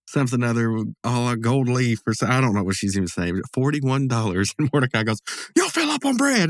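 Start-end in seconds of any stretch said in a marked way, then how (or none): 5.6-6.5 high, loud cartoon voice for the punchline; a playful high-pitched jab; Mordecai's high comeback. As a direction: squeak the retort up high and loud.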